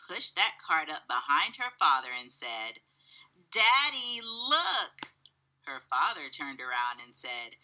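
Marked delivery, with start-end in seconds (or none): 3.5-5.1 high, loud call for Daddy's attention; proud child showing off a find; excited child. A narrator's reading. Taya shows her father the loaded cart, excited child.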